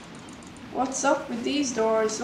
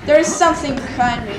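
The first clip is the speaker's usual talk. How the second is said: scared horror game streamer; 8 dB louder, faster than usual. Real, not acted. Sensing a chaser.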